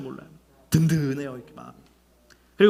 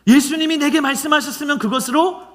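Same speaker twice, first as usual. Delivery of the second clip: preaching at full force; 10 semitones higher, 5 dB louder than usual. Real, not acted. Preaching climax to congregation.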